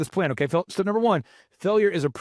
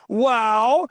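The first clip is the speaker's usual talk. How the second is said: hint of a theatrical imitation; a drawn-out, showy exclamation; Michael Levine; 3 semitones higher, 4 dB louder than usual. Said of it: "this is how he talks".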